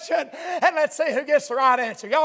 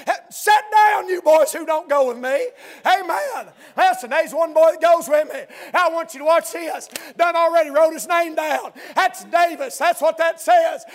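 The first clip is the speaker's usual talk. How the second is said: preaching at full force; 2 semitones higher than usual. Acted. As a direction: preach it hard to the whole church.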